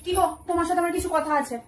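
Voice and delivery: soft, hurt, tearful opening; mock tearful. Wife asking for a talk, acted tearful hurt. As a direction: begin quietly as if close to tears.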